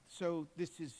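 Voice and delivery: normal talking voice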